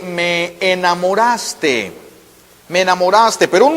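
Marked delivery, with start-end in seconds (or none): 0.0-2.0 slow. Shown as a demonstration. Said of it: "puede tener el significado de".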